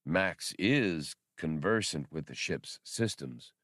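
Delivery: measured and deliberate, like a big droid; deep droid voice. Acted. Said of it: "Bollock said".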